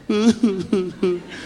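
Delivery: imitated sobbing in short hoots; mock crying. Family just crying to grandpa on the phone, exaggerated mock sobs. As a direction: fake a weepy wail into the phone. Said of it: "zo huilden we alleen maar in die telefoon".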